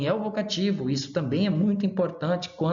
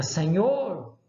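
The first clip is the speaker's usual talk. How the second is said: a mild vocative call; light call, set off by a pause; 2 semitones higher than usual. Shown as a demonstration. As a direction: address "Senhor" as if calling him. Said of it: "Eu chamei, acabei de falar".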